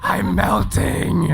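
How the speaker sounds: high, slow wailing melt; melting witch. Pretend. Hot room, mock melting witch.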